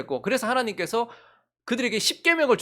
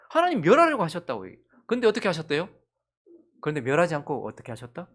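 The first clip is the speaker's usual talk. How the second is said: normal talking voice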